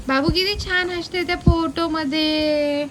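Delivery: normal talking voice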